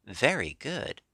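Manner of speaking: a mild, smug little nod of approval; satisfied. Acted. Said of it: "in a tone of satisfaction".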